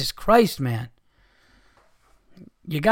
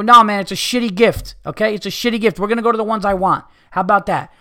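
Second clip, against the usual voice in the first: defiant refusal; 4 semitones higher, 3 dB louder than usual. Shown as a demonstration.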